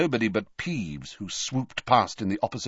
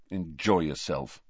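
irritably; 4 semitones lower, 4 dB quieter than usual. Acted. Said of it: "said Harry irritably".

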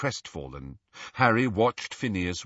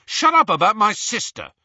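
loud, high angry retort; rough; 13 semitones higher, 9 dB louder than usual. A narrator's reading. Ron defending his sister to the portrait, roughly. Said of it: "said Ron roughly".

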